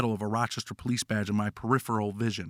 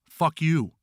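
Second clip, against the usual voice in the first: a prisoner's loud, higher yell; defiant yell; 6 semitones higher, 4 dB louder than usual. Acted. Prisoner yelling defiantly at the shower guard. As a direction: fire it back loud and defiant. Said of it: "another prisoner yells".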